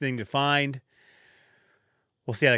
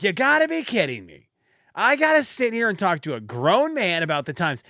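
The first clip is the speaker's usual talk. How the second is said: higher-pitched exasperated rant, mildly raised; mock yelling; 5 semitones higher than usual. Mocking himself at work for advising a grown man, mock yell. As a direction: imitate your own embarrassed outburst without full volume. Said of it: "just started yelling at the top of my lungs".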